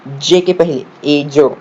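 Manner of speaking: "ए जो" drawn out slowly, sound by sound. Shown as a demonstration. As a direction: stretch "जे के पहले ए जो" to show each sound. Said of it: "लेकिन उच्चार क्या हो रहा है?". ("ए जो" धीरे-धीरे, हर ध्वनि अलग)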